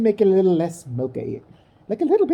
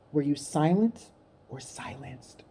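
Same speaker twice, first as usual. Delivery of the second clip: mock dramatic Oprah; 3 semitones lower, 7 dB quieter, slower than usual.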